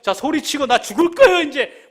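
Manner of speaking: high, loud exasperated outburst; acted last-straw complaint; fed-up resignation. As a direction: protest as if at the end of your strength. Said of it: "뭐 이런 마음인 거죠".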